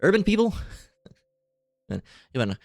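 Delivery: imitated disapproving parent. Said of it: "You've never talked like that before".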